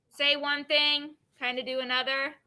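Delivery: slowed-down definition, word by word. Shown as a demonstration. Teacher slowly restating the definition for students. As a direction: spell it out slowly for the class. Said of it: "Is that better?".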